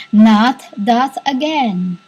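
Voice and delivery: slow, drawn-out quoted voice; retold spirit voice. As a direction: stretch it slowly as a spirit's reply. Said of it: "And the voice was".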